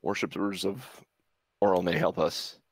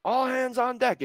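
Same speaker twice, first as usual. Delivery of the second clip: husky yelled alarm; 5 dB louder than usual. Acted. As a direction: call all hands at the top of your range. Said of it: "a husky male voice in the hall yells out".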